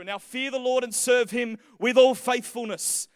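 lightly voiced gladiator-movie hero, slowing towards the end; Russell Crowe epic delivery. Preacher reads Joshua's charge as a movie scene, lightly epic. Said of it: "could absolutely be in an epic movie, a gladiator type, delivered by Russell Crowe".

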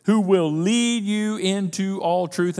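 slowed right down, every word weighed; "truth" lingered on at a slow pace; slow, weighty repeat. Shown as a demonstration. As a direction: stretch out "Who will lead you into all truth". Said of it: "repeated slower".

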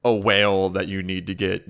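cheeky excitement while a colleague sleeps; gleeful mischief. Pretend. Imagined developer sneaking in jokes.

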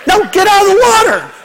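high shout with a laugh in it. Retold or imitated. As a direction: yell the warning through laughter. Warning girls, laughing.

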